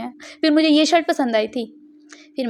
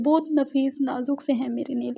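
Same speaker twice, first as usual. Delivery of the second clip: mock dainty; 5 dB quieter than usual. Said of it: "हाँ, वैसे real में ही मेरे बहुत नाजुक हैं".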